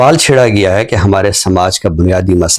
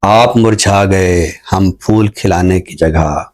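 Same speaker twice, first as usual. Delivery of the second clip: slow, measured ghazal recital, lingering on lines; poem recitation. Acted. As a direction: recite each couplet slowly, letting it land. Poet recites his ghazal.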